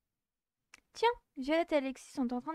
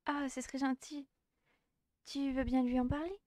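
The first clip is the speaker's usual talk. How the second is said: put-on shy girl voice. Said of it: "J'ai enfin retrouvé sa voix".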